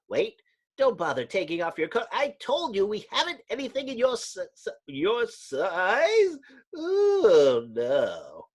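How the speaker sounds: high, fast stammering fright; panicky clerk. Acted. Clerk watching the Thing emerge, high and frightened. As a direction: babble as the brute strips.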